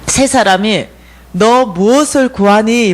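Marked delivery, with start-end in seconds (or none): 1.3-2.9 slow, measured retold question; dream messengers' question. Dream visitors ask what she seeks, slow question. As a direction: ask it slowly and deliberately. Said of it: "묻는 거예요".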